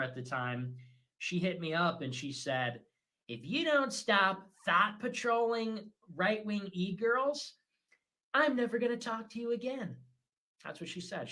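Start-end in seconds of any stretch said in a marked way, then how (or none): 3.3-10.0 put-on British accent. British woman threatens to cut off the streamer, mock British accent. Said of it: "She's British".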